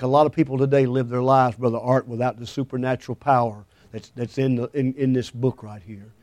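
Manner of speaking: softly fading sermon point. Real, not acted. Preacher fades voice on point.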